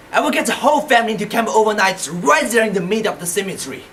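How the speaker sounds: retold outburst, firm and emphatic; acted outburst. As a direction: build an indignant plea into a firm threat. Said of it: "my sudden outburst".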